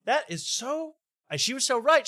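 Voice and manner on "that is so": mom's reaction in a higher voice; imitating mom. Host quoting mom's shocked reaction to the fundraiser, imitating her in higher pitch. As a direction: quote mom, pitched well up. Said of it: "but she goes".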